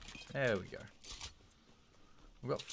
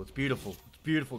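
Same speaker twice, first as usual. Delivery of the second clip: rising delight; 3 semitones higher, 4 dB louder than usual. Real, not acted. Admiring the loot to viewers.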